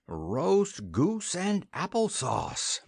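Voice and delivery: slowly mulling over a tasty dinner; musing. A narrator's reading. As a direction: savour each word, lost in thought. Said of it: "mused Kinda".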